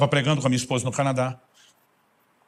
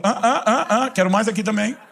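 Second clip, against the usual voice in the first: high, loud, laughing plea for more; playful childlike whine for more; eager child begging; 8 semitones higher, 4 dB louder than usual. Pretend. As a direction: beg like a kid holding out his cup, half laughing. Begging God like a greedy child.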